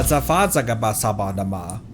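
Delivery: ordinary talk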